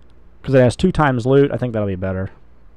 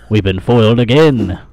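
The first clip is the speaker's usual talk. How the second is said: mock foiled villain; 3 dB louder than usual. Mock villain line, first take.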